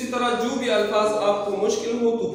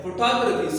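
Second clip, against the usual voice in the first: फोटोग्राफी with टो stressed; second-syllable stress; 3 semitones higher than usual. Shown as a demonstration. Teacher repeating the correct word, second syllable stressed. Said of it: "second syllable पर आप जोर दें".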